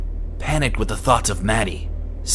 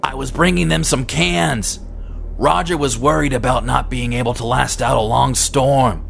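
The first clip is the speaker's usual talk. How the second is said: higher, louder call across the porch; calling out over the storm, a bit raised; shouted from the porch; 4 semitones higher, 3 dB louder than usual. Acted. Carl shouting explanation from the front porch to Eddie, raised and higher. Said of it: "he shouted from the front porch".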